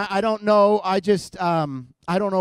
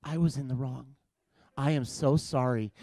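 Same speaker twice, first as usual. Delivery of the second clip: mock apology; 6 semitones lower, 8 dB quieter than usual. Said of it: "it's like".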